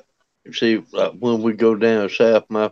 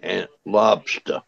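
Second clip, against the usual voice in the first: Maine accent. Shown as a demonstration. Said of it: "what we would say".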